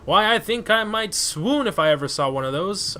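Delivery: lightly voiced swooning lady; dramatic reading. Babs reads the book title with mild drama. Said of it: "reads the title dramatically".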